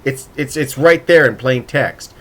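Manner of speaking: insistent, half-shouted protest; exasperated mock shout. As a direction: mildly shout it like an exasperated reader. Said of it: "I'm shouting at the other character".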